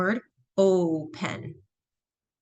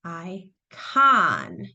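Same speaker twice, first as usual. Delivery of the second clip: icon with the con syllable leaned on; second syllable stressed; 4 semitones lower than usual. Shown as a demonstration. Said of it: "that second syllable".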